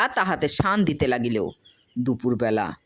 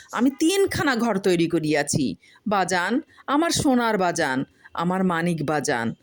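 tender pleading to father; 4 semitones higher than usual. Acted. Farmer addresses mirror lovingly.

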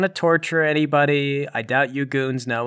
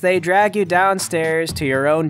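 scene narration; 4 semitones higher than usual. A narrator's reading. Game master narrates scene change.

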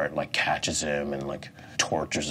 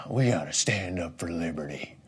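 mock politician speech; 4 dB quieter than usual. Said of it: "Republicans use in speeches".

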